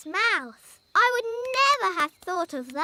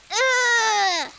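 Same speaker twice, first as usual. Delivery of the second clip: imitated grunt; 2 semitones higher than usual. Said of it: "That's the sound you made when the cow sat on you".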